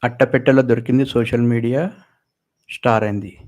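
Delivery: loud, fast headline read; headline announced. Acted. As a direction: punch the headline out. Headline read, then repeated. (బిగ్గరగా శీర్షిక చదవడం)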